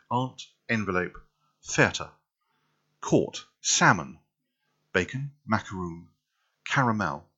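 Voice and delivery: upper-class English diction; posh up each word; posh English accent. Shown as a demonstration. Showing off a word list, upper-class English accent. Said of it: "I can posh that up".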